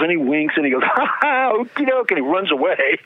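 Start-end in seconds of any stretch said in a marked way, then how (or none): 0.8-2.1 high, mock giggle through the words; giggly okie doke. Soldier giggling off a challenge from a bigger man, high mock giggle. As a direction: giggle it off lightly, like a wink. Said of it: "smiles real big and giggles".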